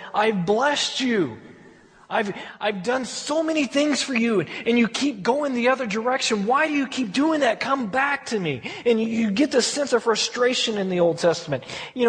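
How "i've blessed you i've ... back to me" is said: put-on a father pleading with wayward children; frustrated God. God pleading with his people, frustrated. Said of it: "this frustrated sense with his people".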